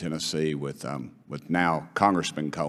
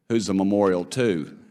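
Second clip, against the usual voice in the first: higher, louder put-on voice of a nosy stranger; suspicious stranger lady; 4 semitones higher, 6 dB louder than usual. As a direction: ask it like a suspicious outsider. Retells a stranger's rude question.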